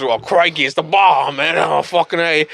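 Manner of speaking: lightly voiced Australian exclamation; a hint of Aussie amazement; retold broad-vowel Australian line; Crocodile Hunter. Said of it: "Crocodile Hunter goes".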